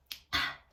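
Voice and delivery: acted winded gasp; mock struggle for breath. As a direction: suck in air as if winded. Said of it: "I can't breathe".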